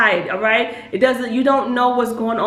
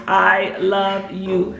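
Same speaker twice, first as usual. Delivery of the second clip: "I love you" said very slowly, each word weighted; slow heartfelt words to a child; slow sincere I love you; much slower than usual. Shown as a demonstration. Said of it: "just make sure that you are saying those three words".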